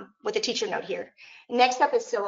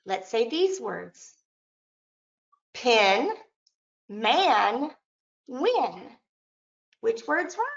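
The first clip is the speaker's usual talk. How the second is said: lightly put-on teacher of young children; teacher hat; much slower than usual. Shown as a demonstration. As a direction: model the words one by one for a class. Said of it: "back to my teacher hat".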